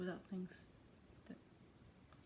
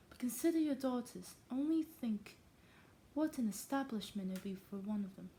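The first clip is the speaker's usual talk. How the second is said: badly faked English accent, higher opening; fake English accent; 3 semitones higher than usual. Wife urging husband about the daughters, in fake English accent. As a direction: attempt an English accent, r's dropped. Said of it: "I should fake an English accent for this one".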